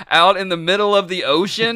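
high, loud incredulous question; incredulous pitch. Retold or imitated. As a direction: pitch it up in disbelief. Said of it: "Kevin Costner was like".

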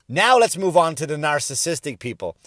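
usual speaking voice

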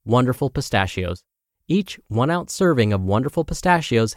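bright, smooth sponsor read voice; upbeat ad read. Acted. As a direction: sell the snack like a radio spot. Host reads sponsor ad.

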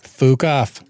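bad Irish "Fuck off" with an "oo" vowel; attempted Irish accent. Shown as a demonstration. Co-host failing at an Irish accent, amateur Irish. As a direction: try Irish again, slow "fook off". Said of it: "I can't do Irish".

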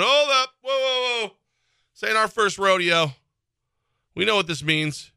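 sceptical fans calling it out; alarmed fans. Retold or imitated. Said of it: "you see people going".

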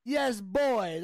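put-on second stab at a British accent; imperfect British accent catchphrase; amateur British accent impression; British accent attempt. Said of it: "Work on your British accent".

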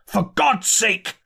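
high, drawn-out desperate plea; terrified. A narrator's reading. Narrator pleading with curate lest Martians hear, high terrified plea. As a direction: beg him in terror to stop. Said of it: "in a terror lest the Martians should hear".

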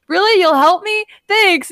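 high-pitched, eager imitation of a grateful kid; Luffy. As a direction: play a naive hero delighted by help. Acting out Luffy's grateful reply.

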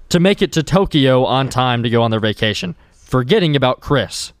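announcer voice. Acted. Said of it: "You want me to do my announcer voice?".

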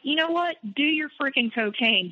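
exasperated retelling, high-pitched; retold angry retort. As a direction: replay a fed-up retort, pitch well up. Acted retort in retold fight.

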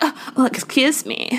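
put-on posh British girl voice; British accent. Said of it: "her British white girl voice".

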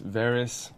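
"Varys" said as VAIR-iss; second pronunciation variant. Shown as a demonstration. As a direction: end "Varys" on a short, soft "iss". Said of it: "chatter about the pronunciation".

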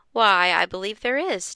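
a hushed spooky whisper; eerie whispered tease. Acted. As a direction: breathe it like a secret to scare the kids. Father spooks kids, whispering.

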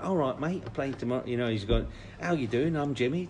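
high put-on Cockney-Glaswegian accent; Jimmy White impression. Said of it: "sorry about the accent".

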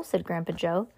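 usual speaking voice

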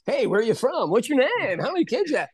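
lightly voiced lazy comic filling time with stock questions; mock hack comic crowd work. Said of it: "forgot a couple of sentences in my act".

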